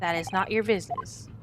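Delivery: proud Russian sailor introducing himself. Acted.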